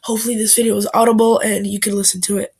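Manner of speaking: blocked nose from a cold; talking through a stuffed-up nose; stuffy nose. Real, not acted. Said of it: "I'm sick and my nose is stuffed up".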